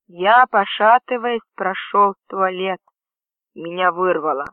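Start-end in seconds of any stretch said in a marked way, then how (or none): none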